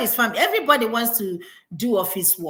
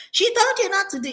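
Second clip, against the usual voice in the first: retold outcry; 11 semitones higher, 3 dB louder than usual. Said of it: "people were started screaming".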